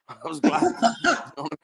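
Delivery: laughing through the words; real laugh breaking in; a laugh carrying the line. Real, not acted. Laughing at own story.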